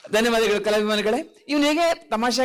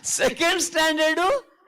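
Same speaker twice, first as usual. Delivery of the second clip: higher, shouted correction; exasperated shout; 5 semitones higher than usual. Acted. Performer yelling a correction at the puppet. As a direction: shout it out to set him straight.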